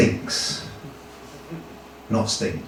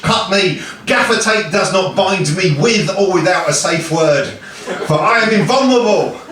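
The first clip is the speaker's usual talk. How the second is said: projected mock-epic boasting; boastful hero declaiming; 2 semitones higher than usual. Achilles boasting to the swordsmith, boastful hero declaiming. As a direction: proclaim your own legend to the crowd.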